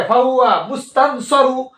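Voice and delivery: মুস্তানসরু said with the i dropped and no final n; wrong reading. Shown as a demonstration. Teacher imitating a careless student reading, lightly. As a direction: mimic the sloppy shortened reading. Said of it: "মুস্তানসরু এরকম পড়ে".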